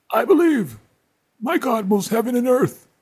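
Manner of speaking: hammed-up gospel fervor; mock churchgoer. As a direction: ham up a zealous believer testifying. Mock devout believer, louder.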